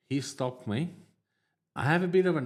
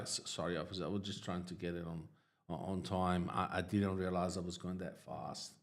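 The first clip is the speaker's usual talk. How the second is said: meek apology; 5 semitones lower, 7 dB quieter than usual. Retold or imitated.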